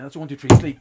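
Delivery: loud sharp command on sleep. Real, not acted. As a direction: snap the word sleep out. Hypnotist command.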